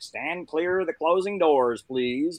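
slow, measured subway announcer; subway announcement. Retold or imitated. Imitating New York subway doors warning, slow announcer voice. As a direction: imitate a recorded transit warning, drawn out. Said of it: "in New York, we have the subways".

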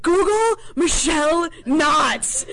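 imitar al amigo, slow and stretched out between laughs; a slow amused drawl; laughing through it. Retold or imitated. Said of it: "He's like".

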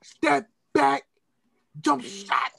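high, loud, disbelieving coach voice; incredulous coach impression. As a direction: ham up a baffled coach. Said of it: "He's like".

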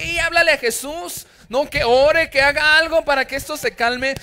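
panicked disciples shouting over the waves. Retold or imitated. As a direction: yell to wake the Master in the storm. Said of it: "sus discípulos gritándole".

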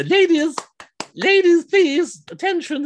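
high, loud calling over a crowd. Retold or imitated. Organiser calling the ladies to attention, high loud call. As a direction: call the room to order, up high.

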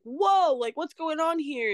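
high-pitched, stunned "whoa"; retold amazement. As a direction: act out being amazed by sudden success, pitch way up. Retelling her amazement at sudden followers.

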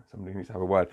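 hushed repeat of someone else's message; muted echo. Retold or imitated. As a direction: echo it under your breath, dropping low. Echoing the message to himself.

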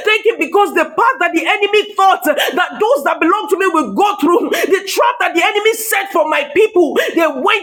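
driving, chant-like preacher's cadence; fervent prayer exhortation. Real, not acted. Preacher leading congregation to thank God, fervent prayer exhortation. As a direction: urge the congregation on without letup.

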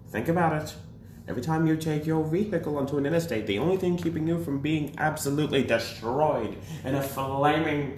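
put-on lightly old-timey radio speech; hint of a vintage commentator; 1950s narrator. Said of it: "That was amazing".

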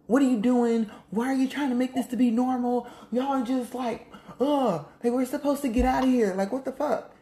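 high-pitched, exasperated scolding; a friend fed up with the crew's complacency. Acted. Friend scolding the crew for getting complacent, exasperated high voice.

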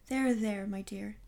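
hushed comforting whisper; soothing whisper. Acted. Husband soothes wife.

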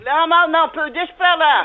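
loud, high repeated no; urgent, high-pitched protest; agitated refusal. Real, not acted. Mother shuts down the quarrel.

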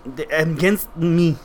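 "against me" slowed in mock French Canadian accent; mimicked French accent. Teasing friend echoing "against me", mock French accent.

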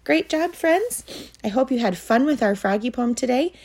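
put-on high, bright praise for little kids; kindergarten teacher voice. Cheerful sign-off to children.

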